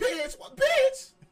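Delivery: very high-pitched, squeaky voice. Explaining the first thing to do, repeating the line high-pitched. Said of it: "repeat it in a high-pitched voice".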